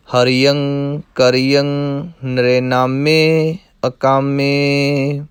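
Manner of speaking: slow, measured verse chanting; slow recitation. Shown as a demonstration. Teacher chants the verses slowly. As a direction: intone each line evenly.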